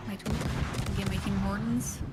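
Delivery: lightly hammed Canadian accent. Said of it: "we got some accents around here".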